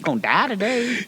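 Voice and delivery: mock ominous voice. Mock reply as mom.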